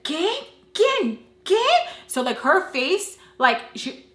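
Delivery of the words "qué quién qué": high-pitched incredulous questions; mock shock. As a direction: squeal each question in disbelief. Friend's shocked reaction acted out.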